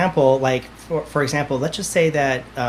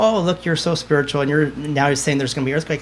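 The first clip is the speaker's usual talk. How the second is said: lightly imitated teasing friends; joking mockery; 2 semitones higher than usual. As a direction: poke gentle fun at a friend. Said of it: "they're joking with me".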